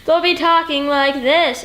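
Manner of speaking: loud stage delivery. Shown as a demonstration. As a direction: overdo it like a stage actor, slowly. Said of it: "why are you talking like that".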